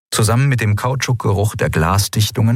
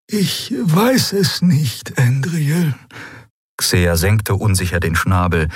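much higher, slow birdlike voice; hesitant, then sure; uncertain Xea; 11 semitones higher than usual. A narrator's reading. Xea tells Endriel about her people, high and unsure.

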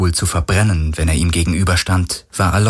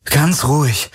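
higher, careful reassurance; soothing, raised pitch; calming; 7 semitones higher than usual. A narrator's reading. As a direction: gently settle someone who is frightened. Calming a frightened woman.

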